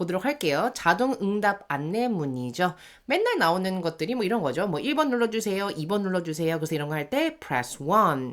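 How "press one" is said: "one" strongly stressed, punched hard. Reading an automated phone menu prompt aloud: strong stress on one. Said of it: "이런 식으로 이 숫자들을 좀 강조해서 읽어주시는 거".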